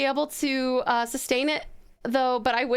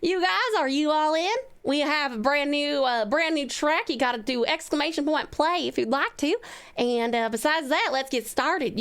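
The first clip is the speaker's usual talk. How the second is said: put-on Southern accent. Streamer greeting viewers for a redeem, lightly Southern accent. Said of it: "Southern accent redeem".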